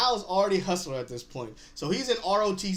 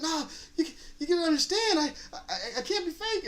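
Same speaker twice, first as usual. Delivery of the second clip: laughing Ern; 10 semitones higher than usual. Retold or imitated. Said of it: "He's like".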